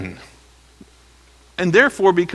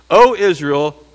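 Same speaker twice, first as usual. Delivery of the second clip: worship leader call. Shown as a demonstration. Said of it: "Here the worship leader says this".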